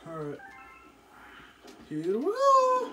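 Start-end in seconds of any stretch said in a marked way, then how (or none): 1.9-2.9 drawn-out, much higher hype call; excited cheer. Real, not acted. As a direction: stretch it out like a hype yell. Big moment, boss fight begins.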